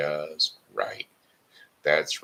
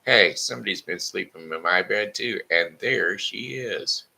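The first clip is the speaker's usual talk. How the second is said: put-on high, louder baby bear voice, slowing at the end; 5 semitones higher, 5 dB louder than usual. Baby bear spots Goldilocks in his bed, high and loud. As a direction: tattle like an excited cub.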